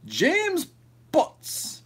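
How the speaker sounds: high, drawn-out silly voice on James; funny name voice. Pretend. Streamer reads a silly chat name in a high comic voice. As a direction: squeal the name like a joke announcer.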